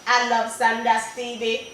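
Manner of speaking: stiff robotic demo. Shown as a demonstration. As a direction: say it like a machine would. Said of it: "they kind of do something like".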